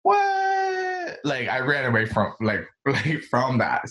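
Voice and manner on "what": sudden, much higher shouted what?; startled what. Real, not acted. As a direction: blurt what? in real surprise. Startled reaction to a laugh.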